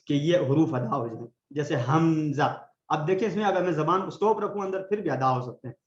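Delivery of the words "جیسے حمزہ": حمزہ slow, the ہ pushed up from the lowest throat; Hamza from the throat. Shown as a demonstration. Teacher demonstrating حمزہ slowly to students. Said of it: "اس طرح سے push نہیں کرتے".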